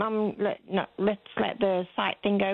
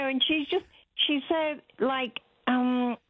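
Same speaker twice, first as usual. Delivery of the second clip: ordinary talk, nothing marked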